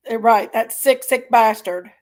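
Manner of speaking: angry, losing restraint for a moment; real anger. Real, not acted. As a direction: spit out the insult in anger. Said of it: "I'm not thinking good wishes".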